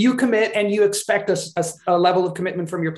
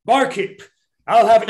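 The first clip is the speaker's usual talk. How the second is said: calling out to the barkeep, louder; lightly acted call for service; in-character tavern order; 7 dB louder than usual. Shown as a demonstration. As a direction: hail the barkeep as your game character. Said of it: "narrating my action as opposed to, like".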